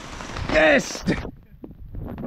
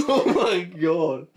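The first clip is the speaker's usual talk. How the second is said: slow, laughing disbelief; breathless giggle through words; much slower than usual. Real, not acted. Friends crack up at stunt.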